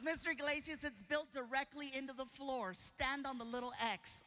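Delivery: instructing nurse. Retold or imitated. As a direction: explain patiently as the nurse. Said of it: "She goes".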